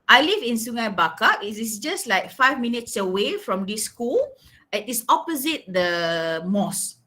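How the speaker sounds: lively and engaged; livelier answer, rising tune. Shown as a demonstration. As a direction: answer with a bit of life. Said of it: "Simple, but better".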